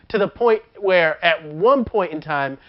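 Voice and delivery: normal talking voice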